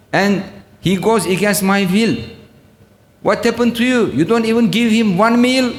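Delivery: a lord chiding his servant in disbelief; divine rebuke. Retold or imitated.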